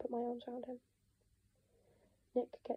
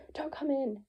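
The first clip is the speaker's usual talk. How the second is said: panicked; 3 semitones higher, 4 dB louder, slower than usual. Acted. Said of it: "He sounds panicked".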